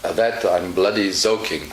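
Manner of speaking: put-on light German accent, soaking as "zoking"; a hint of German, z replacing s. Teacher replaying the German's reply, light German accent. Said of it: "So he replies".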